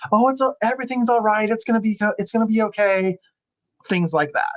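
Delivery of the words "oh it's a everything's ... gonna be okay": high, breezy fake cheer; mock cheery platitude. Nurse mocking staff's hollow comfort, high breezy fake cheer. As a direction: toss it off like an empty reassurance. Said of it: "he was tired of hearing".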